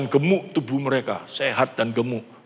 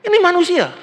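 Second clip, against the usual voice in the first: high, loud "Ini manusia" exclamation; raised preacher's exclamation; emphatic cry; 13 semitones higher, 4 dB louder than usual. Real, not acted. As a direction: call it out sharply to the congregation. Pastor stressing human thinking.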